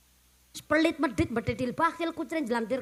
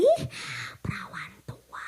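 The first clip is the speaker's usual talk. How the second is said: gossiping whisper; 6 semitones higher, 4 dB quieter than usual. Retold or imitated. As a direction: hiss it behind her back. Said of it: "liwat dirasani".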